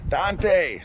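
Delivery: put-on high little-kid voice; lightly voiced toddler calling out; imitating niece. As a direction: mimic a small child shouting a name. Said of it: "He goes".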